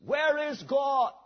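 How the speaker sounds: slow, mildly booming preacher's question. Acted. Huge preacher confronting an eight-year-old boy, slow booming voice. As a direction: lightly boom it out, drawing out each word. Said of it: "with a booming voice he said".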